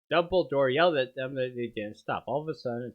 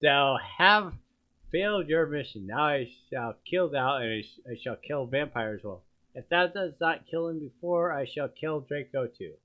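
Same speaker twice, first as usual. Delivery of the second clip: lightly voiced raspy villain; raspy wrathful voice. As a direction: rasp it out with wrath. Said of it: "It was wrathful, raspy voice".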